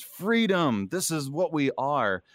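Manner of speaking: high mock battle cry; hammed-up Braveheart freedom cry; imitating Mel Gibson's yell. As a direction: belt it like a movie rallying speech. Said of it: "Mel Gibson yelling out".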